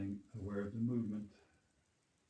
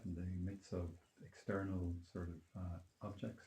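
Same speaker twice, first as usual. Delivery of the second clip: calm grounding exercise. Acted. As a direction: gently lead them back to their being. Leads a grounding meditation.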